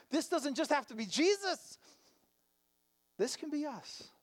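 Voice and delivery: impassioned sermon quote; preaching Jesus' words. Acted. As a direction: proclaim it like a fervent preacher voicing Jesus. Sermon exhortation at full force.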